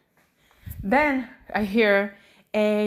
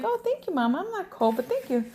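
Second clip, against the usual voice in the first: humouring mom; 7 semitones higher, 3 dB quieter than usual. Retold or imitated. Mom thanking her daughter for a sweater, high gentle coo. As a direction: thank a toddler in a high, soft voice.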